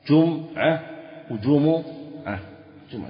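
جمعة as jum'a, then jumu'a, then jum'a again; جمعة said three ways; three forms of جمعة. Shown as a demonstration. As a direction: list the three forms of جمعة one after another. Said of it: "فيها ثلاث لغات".

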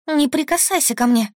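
high panicked scream; terrified yell at an attacker. Acted. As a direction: scream him off you in terror. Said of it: "ору я".

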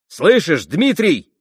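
громко и настойчиво, выше; воскликнуть, требуя пистолеты; громкий возглас. A narrator's reading. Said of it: "воскликнул он громко". (Пётр Ильич громко требует у Мити пистолеты)

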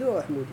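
وأحمد said wa-aḥmudu, with u after the m; second hypothetical vowel. Shown as a demonstration. Teacher showing another rejected conjugation, second hypothetical vowel. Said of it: "لو كان حمد لقال".

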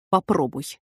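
low, soft grim dare; a quiet menacing challenge. A narrator's reading. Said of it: "мрачно ответил Мэтью". (мрачно, низко и тихо)

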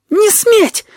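very high-pitched, shrill yell; fierce, piercing command shout; piercing scream. A narrator's reading. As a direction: scream it right in an enemy's face. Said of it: "пронзительно закричал он в лицо Плаксы".

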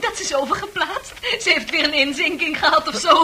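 gleeful gossip; gossipy laughter. Acted. Susan gossiping to the ward, laughing. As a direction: talk through giggles.

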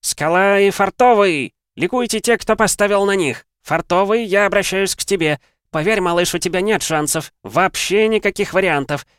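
loud, high hyped-up ring announcer; arena announcer. Acted. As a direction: shout it to the whole arena. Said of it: "прокричал".

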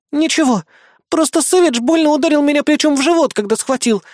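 high strained groan through laughter. Acted. Bismarck groaning that Savage hit her stomach, strained. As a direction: squeeze it out, winded. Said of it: "прокряхтела Бисмарк".

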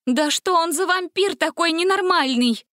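utterly flabbergasted; stunned. A narrator's reading. Gretel after Dracula leaves, stunned. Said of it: "ошарашенно произнесла Гретель".

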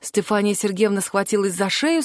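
usual speaking voice

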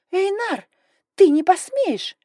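high, shrill-free hissing woman; hissed protest. A narrator's reading. Sister hissing at her brother in outrage, high. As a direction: hiss it at him in outrage. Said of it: "теперь шипела Далия".

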